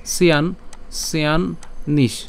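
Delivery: "সিয়ান নিশ" split as siyan, then nish; teacher sounding out "সিয়ান নিশ" piece by piece; broken-down pronunciation. Shown as a demonstration. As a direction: slowly hold the n of "সিয়ান" before "নিশ". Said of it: "যদি আমরা এভাবে লিখি".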